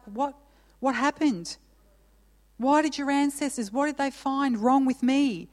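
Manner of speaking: a touch of wounded bewilderment; lightly voiced hurt, asking what went wrong; hurt God. Pastor voicing God's hurt to his people, mildly wounded. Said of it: "he's like".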